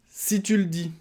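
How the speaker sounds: high, skeptical si tu le dis; dismissive. Pretend. Partner brushing off the wife's complaint, skeptical. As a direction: brush it off with a doubtful lilt.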